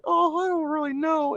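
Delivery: shy, giggly mock reply; a girlish shrug in the voice; mock stormtrooper lady. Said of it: "And she's like".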